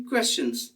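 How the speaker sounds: "क्वेश्चंस" with a clear final s; correct plural. Shown as a demonstration. Teacher correcting students' "question" to plural "क्वेश्चंस". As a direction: sound the s at the end of "क्वेश्चंस". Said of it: "तो हम क्या बोलना चाहिए?".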